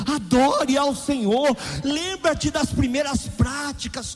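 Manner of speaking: loud, slow, soaring preacher's cry; preaching at full force. Real, not acted. Pastor urging his congregation back to worship, at full volume. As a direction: lift the whole church with it.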